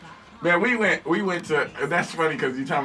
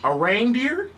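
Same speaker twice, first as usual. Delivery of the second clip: high, rising mock disbelief; incredulous question; 8 semitones higher, much slower than usual. Cop questions the passenger's excuse, high incredulous echo. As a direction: echo it back higher, as a puzzled question. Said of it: "He was like".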